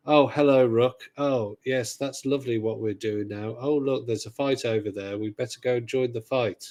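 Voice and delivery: lightly voiced bland English companion, cheery but empty; mock a dull English voice actress reading lines flat and polite; a hint of an emotionless English sidekick. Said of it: "it's talking like this a bit".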